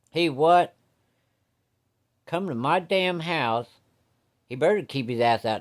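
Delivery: high, loud outraged yell, slowing down; dad erupting when he hears the boyfriend is coming; furious dad. Acted. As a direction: explode like an angry father.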